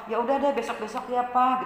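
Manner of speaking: lightly voiced understanding child; forgiving child. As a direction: let papa off kindly. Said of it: "Sikap yang lemah lembut".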